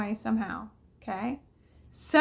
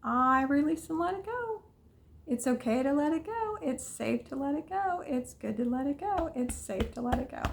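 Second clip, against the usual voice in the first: calm affirmation. Shown as a demonstration. Coach leading viewers in tapping affirmations, calm and soothing. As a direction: say each line as a gentle release. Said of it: "And just say".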